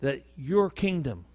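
earnest pulpit prayer, building in pitch; spoken prayer to God, swelling as it goes; public prayer. Real, not acted. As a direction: lead the congregation in prayer, measured and rising. Leads the congregation in prayer.

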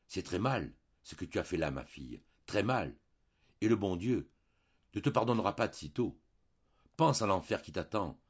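a mild lecturing parish priest; priest's sermon. Acted. Priest sermonizing the maid, mild preachy tone. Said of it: "placer un petit sermon".

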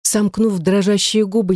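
ordinary delivery

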